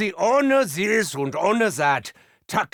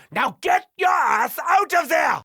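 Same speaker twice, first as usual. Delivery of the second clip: 1 commanding shout; 7 semitones higher than usual. Acted. Ordering comrade to retreat.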